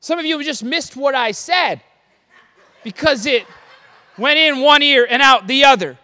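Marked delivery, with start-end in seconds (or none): 2.8-6.0 laughing through the punchline. Real, not acted. Pastor teasing the congregation, laughing. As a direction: chuckle the joke out, louder. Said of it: "laughs at own joke".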